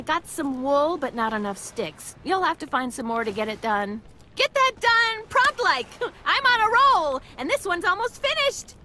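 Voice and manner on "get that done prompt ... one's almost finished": excited. Acted. Cheery painter on a roll.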